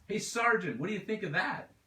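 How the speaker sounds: high, loud call to the back of the hold; shouted. A narrator's reading. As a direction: shout it back over the cargo. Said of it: "She shouted back into the silent space".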